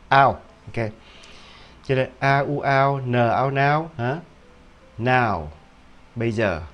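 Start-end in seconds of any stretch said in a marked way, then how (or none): 0.1-5.5 now built from n and ao; model pronunciation. Shown as a demonstration. Teacher modelling now from its sounds, clear and deliberate. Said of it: "mà là".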